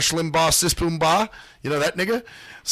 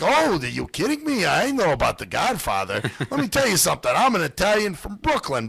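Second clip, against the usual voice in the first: retold Brooklyn Italian; 3 semitones higher than usual. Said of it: "older Italian lady".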